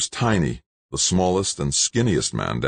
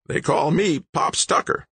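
Pops Tucker; 12 semitones higher than usual. A narrator's reading. Old man giving his nickname, raspy. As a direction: rasp it like an old-timer. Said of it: "His voice sounded like an old-time diesel rig".

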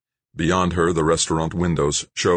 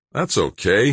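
cheerful; 6 semitones higher, 3 dB louder than usual. A narrator's reading. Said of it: "he said cheerfully".

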